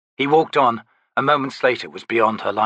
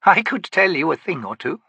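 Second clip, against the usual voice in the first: aged, dignified woman's voice, higher; old priestess voice; 3 semitones higher than usual. Acted. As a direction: speak as an old tribal healer. Maibi teasing.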